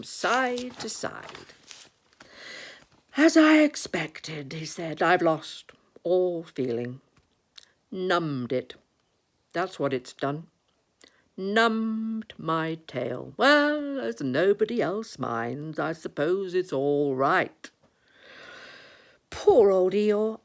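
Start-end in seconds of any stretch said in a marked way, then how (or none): 3.2-4.5 slow, raised lament; drawn-out, long-suffering complaint; Eeyore. Acted. Eeyore swishing his numb tail, slow long-suffering lament. 5.0-17.7 slow, resigned donkey grumble; Eeyore. Acted. Eeyore swishing his numb tail, slow resigned lament. 19.3-20.4 slow, raised pitying tone; sympathetic. Acted. Christopher Robin offering to dry the tail, slow sympathy.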